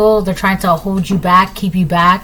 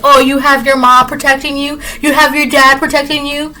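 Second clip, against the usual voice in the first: mildly mad, higher-pitched mimicry; mock indignation; 5 semitones higher than usual. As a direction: imitate someone getting mad and taunting. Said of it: "like, getting mad".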